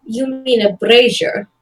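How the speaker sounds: BRAZIER said as BRAY-zher, drawn out; pointed correction. Acted. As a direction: slowly offer the word brazier as BRAY-zher. Corrects his mispronunciation of brazier.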